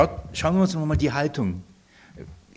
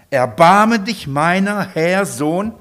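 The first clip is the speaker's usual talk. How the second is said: slow, louder begging plea; pleading cry; 2 semitones higher, 6 dB louder, slower than usual. Acted. Preacher voicing the woman's plea to Jesus, slow loud cry. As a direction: cry out to be rescued.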